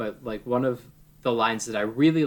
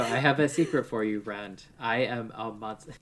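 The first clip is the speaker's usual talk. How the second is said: bedroom voice. Retold or imitated. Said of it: "you had a bedroom voice on".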